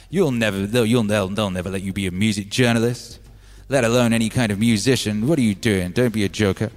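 mock put-down; scoffing boss. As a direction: pour scorn on the young hopeful. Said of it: "he laughed at me".

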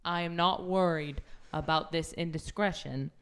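melodrama. Acted. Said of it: "focus on the melodrama".

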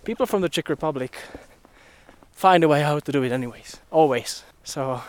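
breathless from the uphill climb; winded, talking between breaths. Real, not acted. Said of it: "I need to catch my breath".

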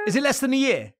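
high, loud surprised question; genuinely taken aback. Real, not acted. Surprised at short time.

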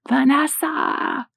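drawn-out high mock scream, held back in volume; long, slow wail of a name; guttural scream. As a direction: imitate a mother crying out for her lost child. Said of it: "her guttural scream".

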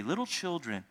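put-on softly, fondly, little children; "Little children" spoken soft and tender; tender address. Shown as a demonstration. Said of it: "very interesting way that he addresses them".

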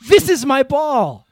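put-on loud, slow call with an Austrian accent; Schwarzenegger movie line. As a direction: belt it across the mall like Arnold, "This" stressed. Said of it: "he cries to the child".

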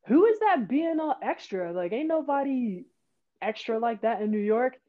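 lightly scornful, retold; mimicked incredulous teammate. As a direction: question who is being so over the top. Teammate's annoyed reaction acted.

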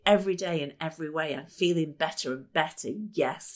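fast rhythmic chant; quick upbeat self-talk chant; incantation. Shown as a demonstration. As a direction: rattle it off like a mantra. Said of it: "Here's one that is really, really easy".

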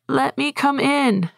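put-on high, slow small-boy voice at the window; high slow child's plea; little boy pleading. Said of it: "And Lewis says".

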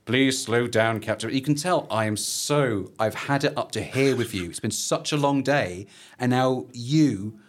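mildly exasperated commander, measured and weary; lightly voiced fed-up superior officer; Colonel White. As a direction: lean on the words with strained patience. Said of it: "how angry must Colonel White be".

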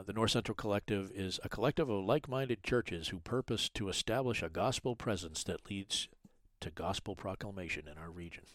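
smooth advert read; commercial voice. Shown as a demonstration. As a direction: read it like a radio ad. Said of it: "It did sound like you had commercial voice in there".

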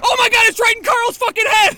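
high frantic shout; panicking gamer. Acted. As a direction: scream in panic at the attack. Panicking in fight.

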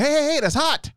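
high, rapid-fire alarm; urgent warning. Shown as a demonstration. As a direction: warn someone about to get hurt. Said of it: "That's how you approach it".

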